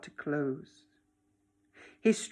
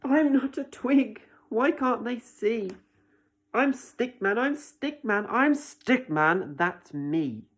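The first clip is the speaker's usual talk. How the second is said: upset Stickman; 3 semitones higher, 5 dB louder than usual. Acted. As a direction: plead to be seen. Stickman protests again.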